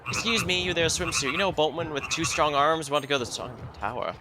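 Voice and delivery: voiced game character. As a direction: read the stranger's line a bit up. Voicing NPC dialogue lines.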